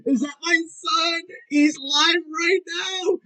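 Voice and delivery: high, slow teasing; mock him, laughing; mocking disbelief. Real, not acted. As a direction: drag it out, taunting. Mocking rival while laughing.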